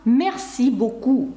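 "Merci beaucoup" slow, stressed on -ci and -coup; final-syllable stress. Shown as a demonstration. Teacher demonstrating French stress, slow and weighted on final syllables. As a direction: lean slowly on the last syllables of "Merci beaucoup". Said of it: "завжди наголос падає на останній склад".

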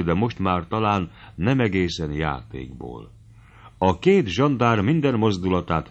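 ordinary delivery, nothing marked

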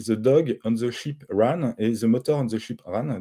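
English sentence read with a French accent. Real, not acted. Lecturer reads an English example sentence to a French audience, with a French accent. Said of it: "Désolé de mon accent".

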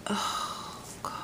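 very soft, breathy disbelief; real hushed amazement; overwhelmed whisper. Real, not acted. Overwhelmed by the gift.

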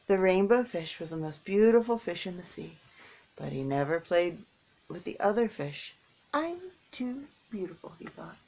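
gentle storybook narration; reading to children. A narrator's reading. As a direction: read it like a picture book for kids. Reading picture book to children.

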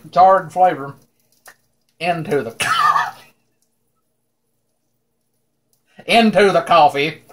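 tipsy, giggling through it. Real, not acted. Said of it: "I'm a little bit tipsy from moonshine".

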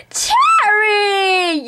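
shout. Real, not acted. Calling sister after fart.

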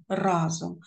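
"разом" stressed on the А; stress on first syllable. Shown as a demonstration. Teacher correcting marked stress, "разом" stressed on А. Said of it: "наголошений перший склад".

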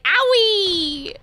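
mock whimper. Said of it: "they were like".

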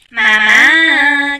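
insistent shout for mum; urgent call. Pretend. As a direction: yell for her to hurry. Calling the game mother again.

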